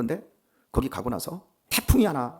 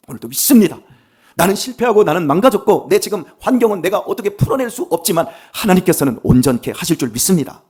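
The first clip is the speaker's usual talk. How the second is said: loud, high-pitched declaration of faith; fervent preaching; 6 semitones higher, 8 dB louder than usual. Acted. Preacher to congregation, shouting his faith at full force. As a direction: proclaim it to the whole church at full force.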